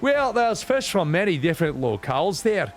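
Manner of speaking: playful voicing of a reporter and a chef; character voices. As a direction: read the characters aloud in put-on voices. Voices game characters' dialogue.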